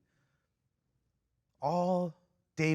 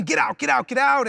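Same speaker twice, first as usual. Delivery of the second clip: louder, higher mock yell in quick repeats; retold screaming; 7 semitones higher, 7 dB louder than usual. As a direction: imitate someone screaming at an intruder, without a full scream. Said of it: "is just screaming".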